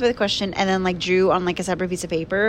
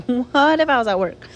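amused, laughing echo; laughing repeat; 4 semitones higher, 3 dB louder than usual. Real, not acted.

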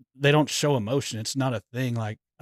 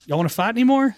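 higher, louder mock-mom question; imitating a scolding mom; 10 semitones higher, 5 dB louder than usual. Mom to her worn-out sons, mock scolding. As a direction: lightly put on a mother's challenge. Voices mom ending the punishment.

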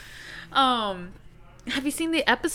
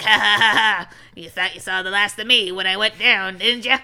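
put-on raspy old woman voice; smoker's rasp; 3 dB louder than usual. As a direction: cackle like an eighty-year-old smoker. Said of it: "I'm, like, eighty with a smoker's cough".

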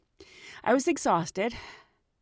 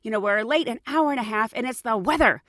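higher, rising to a loud outraged scolding; indignant rant; 5 semitones higher, 4 dB louder than usual. Retold or imitated. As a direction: scold the complainer, building to a shout. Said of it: "He said".

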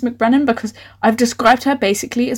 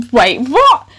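startled disbelief; 5 dB louder than usual. Real, not acted. Reader baffled by her own sentence, startled.

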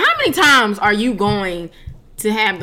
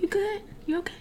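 soft, high, tentative question; acting out a careful check on a friend; gentle check-in; 11 semitones higher, 10 dB quieter than usual. Acts out checking on sad roommate.

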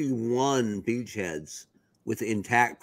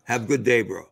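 bad Russian accent; faster than usual. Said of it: "the bad Russian accent".

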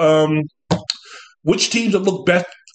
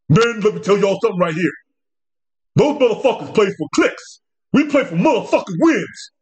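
mock thuggish coach; 3 semitones higher than usual. Coach trying to sound thuggish to his players, mock tough talk. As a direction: ham up a tough-guy locker room speech. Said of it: "try to sound more thuggish, urban".

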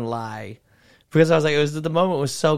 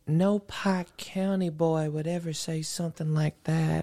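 put-on Southern Ohio accent; 5 dB quieter, slower than usual. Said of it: "had that fucking accent".

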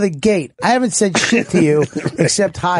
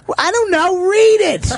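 mocking the producer; 12 semitones higher than usual. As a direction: play him as a snippy jerk. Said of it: "where you go".

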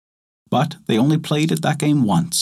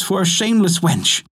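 scornful village women; 7 semitones higher than usual. A narrator's reading. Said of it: "cried the others".

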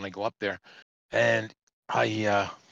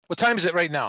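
mock angry demand; 4 semitones higher, 4 dB louder, faster than usual. Acted officer questioning the trucker.

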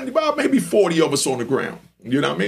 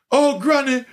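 mock pleading to granny; 7 semitones higher than usual. Beaten man begging his dead granny, high mock-pleading Jamaican voice. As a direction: cry out to a dead grandmother for help, hammed up. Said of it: "he's saying".

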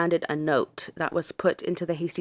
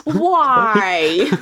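laughing out the word, louder; cracking up mid-question; real laughter; 8 semitones higher, 7 dB louder than usual. Real, not acted. Laughing at cohost's joke about the Welsh, real laughter.

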